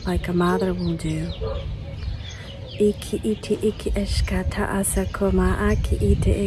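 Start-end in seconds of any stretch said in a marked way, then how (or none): 2.8-6.4 whispered light language. Acted. Channelled light language chant.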